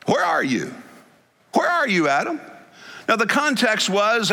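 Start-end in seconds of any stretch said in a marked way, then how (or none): 0.1-2.4 calling out as God. Acted.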